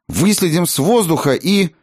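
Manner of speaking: put-on high-pitched warlike boy; militant. A narrator's reading. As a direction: declare war in a high, eager voice. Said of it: "воинственно заявил Чаргас". (воинственный мальчишеский выкрик)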